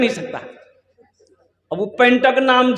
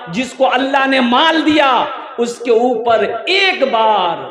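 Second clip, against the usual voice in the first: emphatic sermon phrases with drawn-out endings; preaching. Real, not acted. Preacher tells Muslims that hajj is obligatory, preaching. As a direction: proclaim the duty to the crowd.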